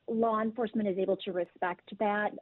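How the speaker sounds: ordinary delivery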